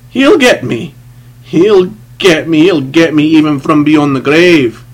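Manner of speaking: loud, high, panicked whine; pathetic whine. A narrator's reading. Big man exclaiming to the priest, pathetic whine. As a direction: wail it out in terror. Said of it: "in a sort of whine".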